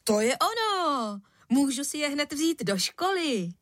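put-on boy's high excited shout; excited cry. A narrator's reading. Boy thrilled by his father's shoes, exclaiming. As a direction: blurt it out with delight. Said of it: "vykřikl".

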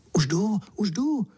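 high, eager answering cry; eager call. A narrator's reading. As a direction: rush to answer, keen to go. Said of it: "zvolal jsem horlivě".

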